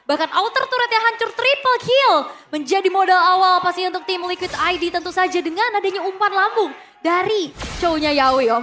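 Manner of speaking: excited caster. Real, not acted. Co-caster excited over turret.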